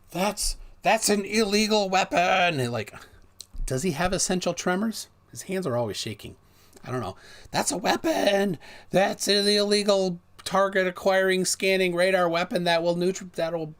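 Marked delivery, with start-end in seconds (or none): 0.1-2.6 higher, louder, slow mock-serious voice; mocking Mark Steele. Vlogger mocking a critic's antenna claim, slow mock gravity. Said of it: "He's like". 7.5-13.7 higher, louder, slowed mock-alarm; mocking Mark Steele. Vlogger parodying the critic's radar weapon claim, hammed-up alarm. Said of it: "He's like".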